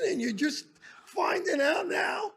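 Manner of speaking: indignant yell. Retold or imitated. Scolding the teachers about missing kids, exasperated yell. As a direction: demand it like a furious trip leader.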